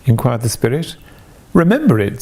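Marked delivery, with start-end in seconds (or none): 1.5-2.2 higher and louder, eager burst; with fervour. A narrator's reading. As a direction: fling out the memory with fervour. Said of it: "said Scrooge with fervour".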